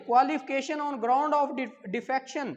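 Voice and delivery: dictating the exam question at half speed; slow dictation to the class; slow question read. Shown as a demonstration. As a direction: read the question slowly and clearly. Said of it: "question number दस है जी".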